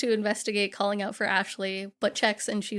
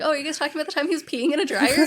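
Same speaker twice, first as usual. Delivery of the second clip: teasing laugh; 5 semitones higher, 3 dB louder, faster than usual. Retold or imitated. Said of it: "Ashley comes in and she's like".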